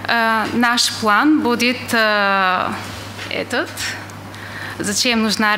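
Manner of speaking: Russian with an English accent; non-native Russian, English accent. Real, not acted. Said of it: "я не очень хорошо говорю по-русски".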